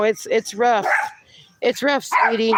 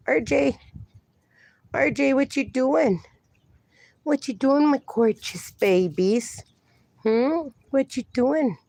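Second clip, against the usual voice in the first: cooing to pets; 4 semitones higher than usual. Real, not acted. Cooing to pet dogs.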